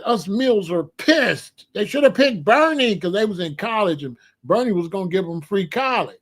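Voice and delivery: mildly indignant imitation of a daughter; pissed daughter. College daughter complaining to Dad about the election, pissed. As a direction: retell her complaint with a touch of anger. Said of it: "My daughter was pissed".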